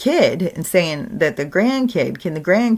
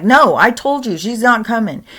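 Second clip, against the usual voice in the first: higher, louder firm grandpa; firm refusal; 5 semitones higher, 4 dB louder than usual. Retold or imitated. Grandpa refusing the pleading granddaughter, firm and loud. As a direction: refuse flatly.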